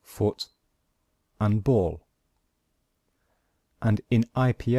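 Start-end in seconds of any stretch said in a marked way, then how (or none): 0.0-2.1 foot and ball, said as two separate syllables; split into syllables. Shown as a demonstration. Teacher showing the syllables of football. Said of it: "has two syllables".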